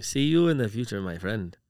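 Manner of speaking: put-on a touch of French accent; mock French accent. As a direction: try the French accent again, half-hearted. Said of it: "I don't think that was French".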